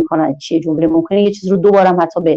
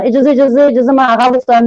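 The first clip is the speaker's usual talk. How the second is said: mock pupil whine; 5 semitones higher than usual.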